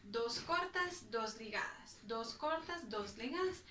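slow, spaced rhythmic count of cortas and ligadas; counting out the bowing pattern. Shown as a demonstration. Cello teacher to students, slow rhythmic counting. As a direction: spell out the pattern beat by beat. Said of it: "Entonces serían".

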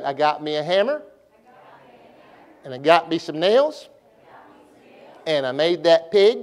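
each line swings up on its last word; sing-song lift on "hammer", "nails", "pig"; rising inflection. Shown as a demonstration. Preacher leading class in poem, rising inflection. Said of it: "my voice goes up, y'all go up".

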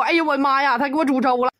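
lightly imitated teary gushing to mom; a hint of fake sobbing; half-hearted mock crying to her mother; mock weepy quote. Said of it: "哭唧抹泪儿说".

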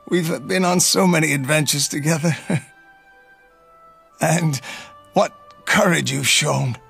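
weak, tender goodbye with coughs; old uncle saying farewell to Leo as he dies; dying farewell. Acted. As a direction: say goodbye as life fades.

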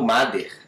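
"Mother" said like the surname Mader; hard D in the middle of "Mother"; mispronounced D. Shown as a demonstration. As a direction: Brazilian "Máder" for "Mother". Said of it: "Não é a Malu".

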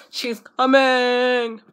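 slow, breathless whisper, "She's coming"; mysterious whisper. Acted. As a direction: whisper it slowly like a secret. Teasing hype about a singer.

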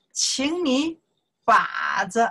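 high, loud classroom command; drill shout. Shown as a demonstration. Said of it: "teacher drilling a command".

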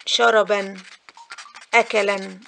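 "شربًا" and "أكلًا" each ending in -an; wrong tanween demo. Shown as a demonstration. Teacher showing that verbs refuse tanween, wrongly added -an endings. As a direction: put a sounded N on "شربًا، أكلًا". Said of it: "الكلام ده خطأ".

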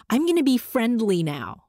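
lightly put-on friendly service voice; a hint of customer-service niceness. Speaker showing how they play nice, mild customer service voice. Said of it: "dubbed the customer service voice".

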